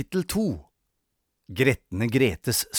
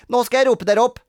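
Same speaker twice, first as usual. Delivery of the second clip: high, loud announcement; bossy, officious girl; child playing teacher; 11 semitones higher, 8 dB louder, faster than usual. A narrator's reading. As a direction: take charge of the class. Grete plays teacher.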